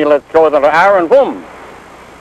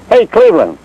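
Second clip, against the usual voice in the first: calling out; 6 semitones higher than usual. Retold or imitated. Calling the son into the bar.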